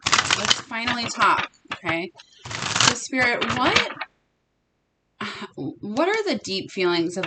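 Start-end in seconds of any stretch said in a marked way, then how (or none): 0.0-1.5 a light, lifted voice, eager to open up; lightly voiced hopeful partner; voicing the divine masculine. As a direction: speak for him as if he's finally ready. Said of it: "He's saying".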